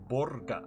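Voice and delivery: Burger said as "BOR-guh"; botched Russian burger. Shown as a demonstration. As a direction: another clumsy Russian try at Burger, with "bor" up front. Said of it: "I just sound stupid".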